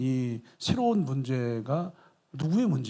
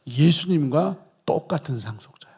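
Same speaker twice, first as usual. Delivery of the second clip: excited emphasis; 4 dB louder than usual. Shown as a demonstration. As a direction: announce it with rising fervor. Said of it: "놓쳤을까 봐".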